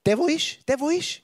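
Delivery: high, playful Swiss German "Der, wo ist"; amused dialect version; Swiss German rendering. Shown as a demonstration. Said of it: "Auf Schweizerdeutsch".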